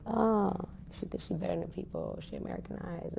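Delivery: a lightly voiced sneer that drops to a whisper; mock his snide gossip, fading to a hiss. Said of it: "this guy, Marka, added".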